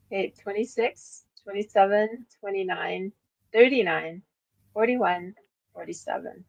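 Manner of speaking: steady bingo caller; bingo calling. Shown as a demonstration. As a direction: call out numbers like bingo. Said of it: "bingo calling".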